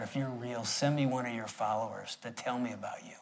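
whispered plea to the sky; quiet pleading prayer; hushed prayer. Retold or imitated. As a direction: retell the prayer in a near whisper. Retold whispered prayer on highway.

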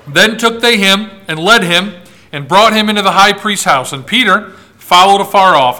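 measured, solemn Bible reading; scripture reading. Acted. Preacher reading Luke's account of Peter's denial to his congregation, solemn reading. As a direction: read the passage to the congregation.

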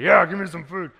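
put-on hungry kid. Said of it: "He's like".

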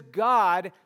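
a psalmist begging God to judge his enemies; pleading prayer voiced for David. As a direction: cry out to God for justice. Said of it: "He says".

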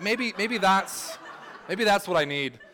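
high, slow mock hopeful musing, laughing at the end; joking aside. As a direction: pretend to consider it, then laugh. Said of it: "And I was like".

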